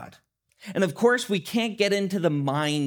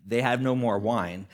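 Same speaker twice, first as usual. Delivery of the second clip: a knowing, pointed hint with brow raised; pointed, eyebrow raised; 5 semitones lower than usual. Retold or imitated. Mother hinting to Jesus, pointed and knowing. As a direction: say it like a loaded hint. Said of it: "picture her raising her eyebrow".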